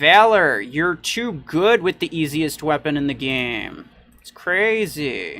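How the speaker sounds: mocking, fake-admiring sarcastic tone, crazily drawn out. While playing an online match, talking about another player, sarcastic. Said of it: "I'm being completely sarcastic".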